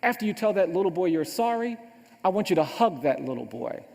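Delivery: lightly acted mother, firm and insistent; stern mother. Mother sends her son to make amends, stern. Mother adds an order, retold.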